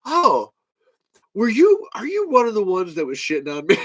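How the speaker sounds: mock accusing Don. Don confronting him.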